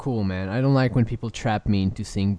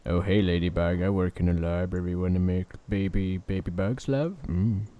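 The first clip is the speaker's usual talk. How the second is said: low seductive voice; 5 semitones lower, 5 dB quieter than usual. Acted. Voicing Fishworth flirting.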